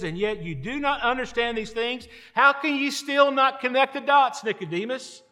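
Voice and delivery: acting out an incredulous teacher's challenge; challenging question. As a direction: question him in disbelief. Jesus challenging Nicodemus, acted.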